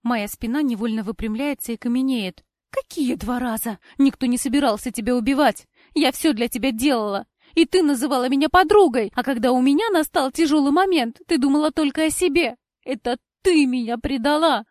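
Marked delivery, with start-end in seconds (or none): 2.7-14.6 loud, higher furious accusation; angry. A narrator's reading. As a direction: hurl it in her face. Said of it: "Зло бросает Кора".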